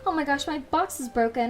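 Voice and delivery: sweet, high fake-worried service voice; customer service voice. Shown as a demonstration. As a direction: play the cute cashier. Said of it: "my customer support voice on".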